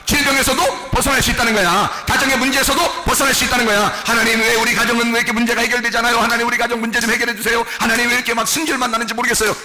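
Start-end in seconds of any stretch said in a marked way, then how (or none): 4.0-9.6 mock pleading on one steady note; acted monotone lament; complaining prayer. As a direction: plead to God in a droning run.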